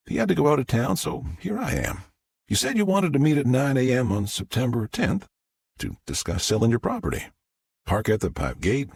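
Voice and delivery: a hint of a polite Southern visitor; lightly voiced Southern businesswoman. Agent explains her visit to the owner, lightly Southern.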